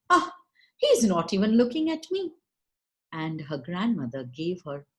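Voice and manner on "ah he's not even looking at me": high, sulky little cockroach voice; young cockroach girl. Acted. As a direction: pout it, high and a bit hurt. Cockroach Meenakshi speaks.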